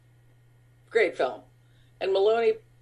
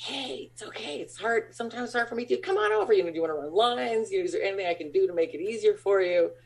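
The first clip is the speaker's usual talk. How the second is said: gentle reassurance; faster than usual. Retold or imitated. Comforting a crying guest star.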